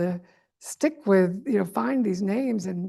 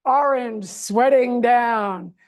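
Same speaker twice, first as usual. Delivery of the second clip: laughing mockery; 2 semitones higher, 6 dB louder, slower than usual. Real, not acted. Mocking Trump, laughing.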